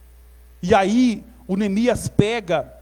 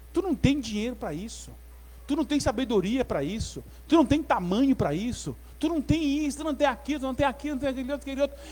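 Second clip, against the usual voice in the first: soft, running list of objections; discouraging naysayer; 6 dB quieter, faster than usual. Acted. Friend belittles someone's plan.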